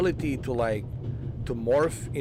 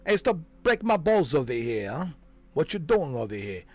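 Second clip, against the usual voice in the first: put-on New York accent; 3 semitones higher than usual. Imitating Colin Farrell's Penguin in a light New York accent. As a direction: toss it off like a New York wiseguy in a mild New York accent. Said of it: "to do the whole".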